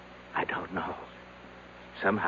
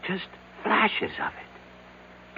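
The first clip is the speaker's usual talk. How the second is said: slow whisper; 9 semitones higher, 7 dB quieter, much slower than usual. Acted. Recalling the terror on the mountain.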